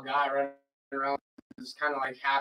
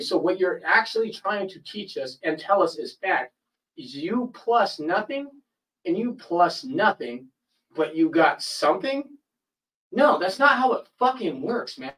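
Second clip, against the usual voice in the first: higher, slow, incredulous challenge; drawn-out retold argument, higher than usual; incredulous arguing; 5 semitones higher, slower than usual. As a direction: spell it out in disbelief, pitch up.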